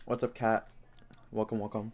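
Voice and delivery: greeting while still chewing; chewing while talking. Real, not acted. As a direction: mouth still full of food. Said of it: "excuse the chewing".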